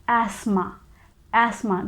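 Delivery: asthma said as "ASS-ma", no Z sound; British pronunciation. Shown as a demonstration. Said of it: "And in British English".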